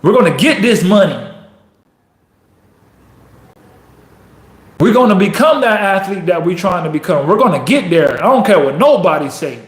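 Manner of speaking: fired-up team pep talk; emphatic, rallying determination; commanding self-talk. Acted. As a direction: tell the doubting voice how it's going to be. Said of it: "You tell it what we're gonna do".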